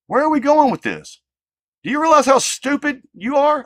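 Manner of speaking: loud, high, shouting at the commenter; real outrage at a hateful comment; furious rant. Real, not acted. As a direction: let him have it, voice cracking up high.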